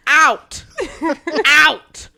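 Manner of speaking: high, loud mock command; stern order. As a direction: order him out like a dog. Retold ordering the man out.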